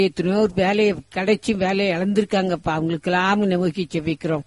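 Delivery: earnest pleading prayer to God; steady devotional prayer voice; fervent prayer. Acted. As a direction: pray aloud for the congregation, begging for healing. Leads a long spoken prayer.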